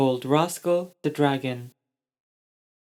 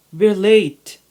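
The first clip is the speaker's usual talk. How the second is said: loud, urgent, higher; urgent hurry; 5 semitones higher, 9 dB louder than usual. A narrator's reading. Robbie hurrying the girls, loud and urgent. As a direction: hurry them along. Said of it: "he said".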